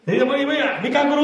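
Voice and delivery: equation asking a question. Acted. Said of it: "मी याला प्रश्न विचार".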